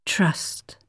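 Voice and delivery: breathy, soft unvoiced whisper. A narrator's reading. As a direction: breathe the word like a fading thought. Echoing word in her mind.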